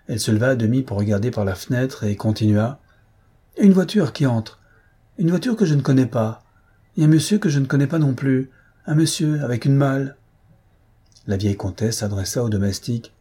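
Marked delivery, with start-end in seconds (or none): 3.6-10.2 higher, louder news from the window; excited announcing. Acted. Antoinette reports an unknown carriage arriving, lively and curious. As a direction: report each sight with mild excitement.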